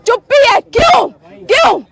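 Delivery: high, punchy one-word challenges; indignant demand. Real, not acted. Reporter confronts silent police officers, indignant demand.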